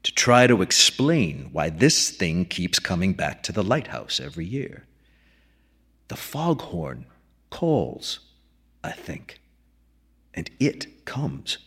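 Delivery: a hint of a weathered old keeper musing; old keeper McDunn. McDunn speaking.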